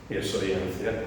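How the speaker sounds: low, self-important elder; boastful elder. Acted. Boasting to others about being an elder, self-important. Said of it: "le encanta presumir de lo que no deben de presumir".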